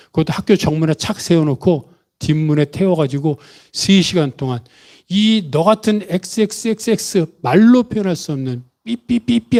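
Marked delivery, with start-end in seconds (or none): 5.1-9.6 imitated rant, pitched high; retold cursing with bleeped-out insults; higher-pitched mock tirade; mock scolding. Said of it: "막 욕을 하고".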